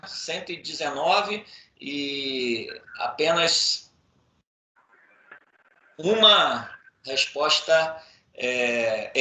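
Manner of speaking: choppy, cutting-out connection; glitching robot. Real, not acted. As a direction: voice breaking up on a bad call. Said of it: "a sua voz tá picotando muito".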